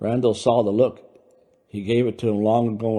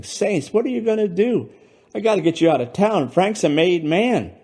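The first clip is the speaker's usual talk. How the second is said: much higher, louder frantic panic; panicking; 9 semitones higher, 5 dB louder than usual. Acted. Louis panicking that Brando whacked Frank, frantic and loud. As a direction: spiral into alarm, pleading.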